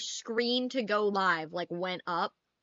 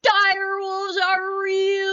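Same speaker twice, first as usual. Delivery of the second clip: slow, loud, thrilled shout; excited shout; 10 semitones higher, 8 dB louder, much slower than usual. Retold or imitated. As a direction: shout it out with pure glee. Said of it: "I was like".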